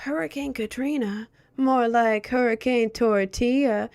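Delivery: a hint of the watermelon guy's deadpan; quoting a Vine. Streamer reciting the watermelon guy's Vine to chat, lightly voiced.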